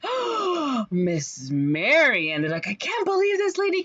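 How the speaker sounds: very high, shrill mock outrage; scandalized gossips. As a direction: clutch your pearls and gossip.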